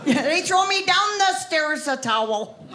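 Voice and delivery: slow, laughing Wisconsin phrasing; mock the hometown backwards talk. Shown as a demonstration. Teasing her own hometown's backwards phrasing, in a slow Wisconsin voice. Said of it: "we all say stuff backwards".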